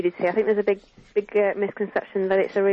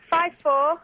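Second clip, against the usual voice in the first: slow dictation; 6 semitones higher than usual. Shown as a demonstration. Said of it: "dictating the number".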